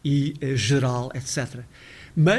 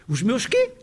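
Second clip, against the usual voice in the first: os meus quê, high and baffled; puzzled Brazilian; 6 semitones higher than usual. Retold or imitated. Lecturer playing a confused Brazilian listener. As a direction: ask it like a lost Brazilian listener. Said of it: "Um brasileiro não tem a mínima ideia".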